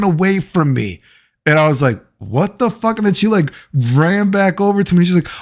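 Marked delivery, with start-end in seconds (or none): 2.2-3.0 high incredulous yelp of confusion; mock disbelief, pitched up; baffled. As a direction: throw it up high, totally thrown. His own baffled reaction retold.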